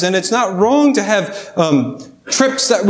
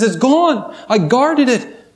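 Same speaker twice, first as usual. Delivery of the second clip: slightly higher, a touch of panic; mild mock panic; 4 semitones higher, slower than usual. Dog telling the cat his guarded ham is gone, lightly panicked. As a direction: play the dog's dismay, understated. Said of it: "he panics".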